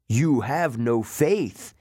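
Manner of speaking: slow, lightly voiced monster mother; a slow scornful verdict; snake lady. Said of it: "Echidna told me".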